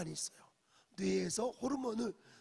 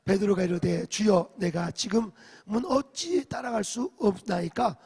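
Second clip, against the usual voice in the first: loud, slow, measured recitation of scripture; loud group scripture reading; 13 dB louder than usual. Shown as a demonstration. Pastor leads the congregation reading aloud, loud recitation. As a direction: lead the congregation through the verse, full voice. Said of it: "같이 읽어볼까요".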